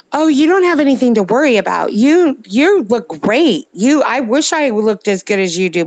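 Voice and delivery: mildly hammed-up friend reassuring her she looks great; mock gushing friend. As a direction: lightly play the flattering friends.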